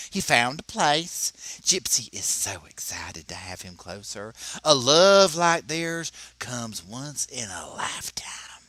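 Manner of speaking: breathy, dreamy hammed-up read; mock sweet storyteller. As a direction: gush it like a romance ad. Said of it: "she told people".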